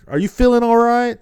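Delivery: high, loud fussing parent voice; a hammed-up worried mom; mock worried parent. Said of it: "They're just like".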